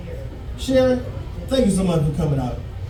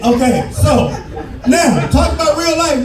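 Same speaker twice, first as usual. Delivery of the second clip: usual speaking voice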